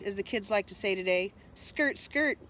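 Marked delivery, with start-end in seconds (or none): 1.5-2.4 high mocking skirt skirt. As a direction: poke fun at his scurrying. Mocking Gavin's hurried steps.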